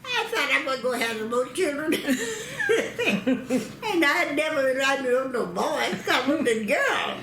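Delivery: laughing explanation. Real, not acted. Grandmother laughing as she explains wanting a girl. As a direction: chuckle through it.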